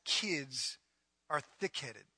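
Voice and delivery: low, soft muttered aside; mumbled under the breath. Acted. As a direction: drop the voice for the punchline. Pastor muttering punchline aside.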